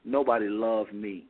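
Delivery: slow, low inner voice like your own thought; evil spirit's whisper in your head. Shown as a demonstration. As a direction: say it slowly as if the thought were yours. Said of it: "I think they talk like this. Listen to this, folks".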